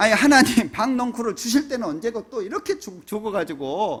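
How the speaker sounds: heated voice, loud and high-pitched. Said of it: "막 따지는 거예요".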